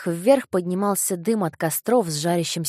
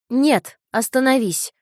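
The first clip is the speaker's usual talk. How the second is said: put-on high, slow boyish shout; 5 semitones higher, 6 dB louder, slower than usual. A narrator's reading. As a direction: call out to stop him. Boy shouts at glutton.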